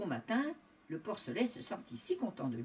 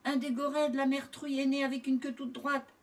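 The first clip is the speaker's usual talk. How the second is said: raised, louder voice of discovery; astonished cry; 5 semitones higher, 4 dB louder than usual. A narrator's reading. Farmer showing Jean the straight-tailed piglet, calling out amazed. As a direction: exclaim it to a companion. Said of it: "s'écria le premier".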